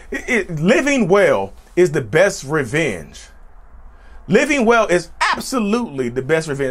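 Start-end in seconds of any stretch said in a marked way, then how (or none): 5.2-6.1 emphatic, with a pubescent crack. Real, not acted. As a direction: voice jumps up and cracks on "absolutely". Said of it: "Look at that puberty kicking in".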